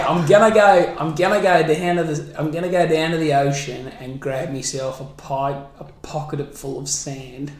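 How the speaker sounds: Australian accent. Shown as a demonstration. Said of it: "you can do an Australian accent".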